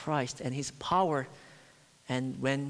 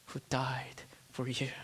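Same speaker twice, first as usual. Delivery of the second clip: whisper; 6 dB quieter than usual. Acted. Christ's words voiced intimately.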